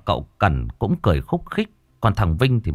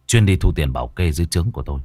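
low voice; 5 semitones lower than usual. Acted. Vinh argues with inner voice.

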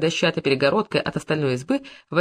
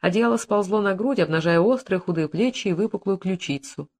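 ordinary delivery, nothing marked

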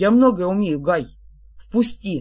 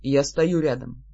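joyless murmur; 6 semitones lower than usual. A narrator's reading. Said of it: "невесело прошептал призрак".

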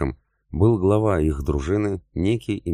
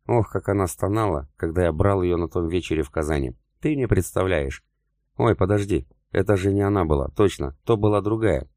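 gloating taunt; 3 semitones higher than usual. Acted. Ilham boasting to enrage Semyon, gloating mockery. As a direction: rub it in, enjoying the cruelty. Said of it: "продолжал он злить меня".

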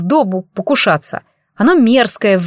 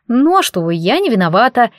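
ordinary delivery, nothing marked

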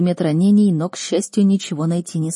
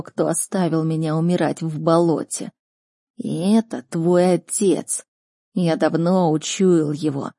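slow, drawn-out creature voice; grave, stretched beast speech; wronged talking beast. Acted. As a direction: recount the betrayal heavily, word by word. Voices the beast Nix telling his story.

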